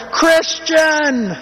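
high, far-carrying call of a name; a mother calling her son across the restaurant; woman's scream. Retold or imitated. Mother calling her son Christian, a high call. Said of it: "some woman scream out of nowhere".

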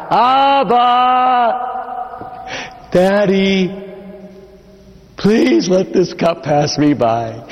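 high pleading cry to a father. Retold or imitated. Jesus crying out to his father in the garden, pleading. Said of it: "he starts to cry out".

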